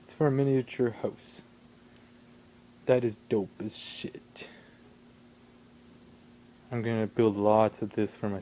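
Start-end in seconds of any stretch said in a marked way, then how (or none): 2.9-4.5 slow, breathy-free whisper of delight; hushed whisper. Real, not acted. Admiring a tiny house part, whispered slowly. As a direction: whisper it, impressed, so as not to wake anyone.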